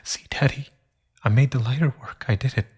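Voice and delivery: put-on childlike proud cry. Boy shows dead father lighter.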